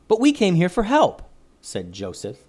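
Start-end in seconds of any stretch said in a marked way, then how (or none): 0.1-1.2 raised, indignant protest; a bit angry. A narrator's reading. Joseph protesting to the forest leader, a bit angry. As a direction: push back with rising frustration. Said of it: "a bit angry".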